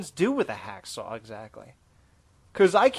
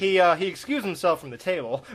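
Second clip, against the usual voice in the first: laughing; 2 semitones higher than usual. Pretend. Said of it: "He was laughing".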